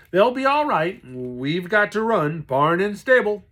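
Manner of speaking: loud, high urgent call over the storm; urgent shout. Acted. Dad urging escape from flood.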